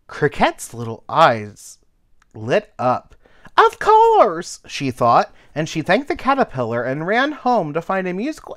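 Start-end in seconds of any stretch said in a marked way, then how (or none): 3.6-4.6 high, loud cricket voice; light up with the idea; excited realization. Acted. Cricket suddenly knowing what to do, excited.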